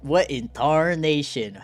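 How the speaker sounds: slow, mock-Southern exclamation; hammed-up Southern bafflement; Southern accent. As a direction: echo it with a Southern drawl. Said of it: "localize him as very southern".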